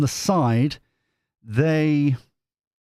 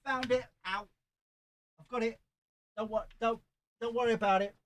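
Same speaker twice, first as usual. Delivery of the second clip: higher and much softer, still under the table; muffled from below; 7 semitones higher, 11 dB quieter, much faster than usual. Real, not acted. Reader under the table reassures her viewers, muffled. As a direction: call up from under the desk.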